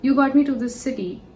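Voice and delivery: mildly angry complaint to a guru; a touch of indignant pleading, retold; retold angry protest. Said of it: "I was fighting with him".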